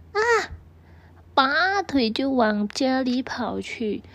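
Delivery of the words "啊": short startled scream; a sudden frightened gasp-cry. A narrator's reading. Mouse cries out, startled by the bad news. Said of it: "叫了一声".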